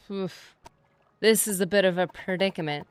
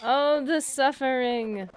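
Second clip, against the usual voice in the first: mock suffering; 4 semitones higher, slower than usual. Fakes suffering for companion.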